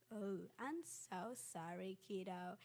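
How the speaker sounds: slow, drawn-out sympathy; acted-out gentle, unhurried apology; sympathetic apology. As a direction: imitate a secretary feeling sorry for a kid. Secretary realises and apologises to student.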